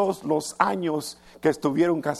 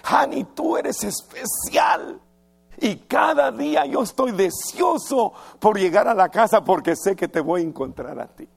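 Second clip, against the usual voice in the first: affectionate husband; 4 semitones higher than usual. Retold or imitated. Husband embracing his wife and praising her, gushing and tender. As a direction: pour out sweet praise. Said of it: "la abraza, la besa".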